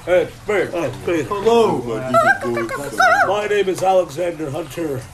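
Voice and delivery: lightly distorted demon voice; a hint of a layered demon voice; demonic layered voice. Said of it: "Do your demon's voice".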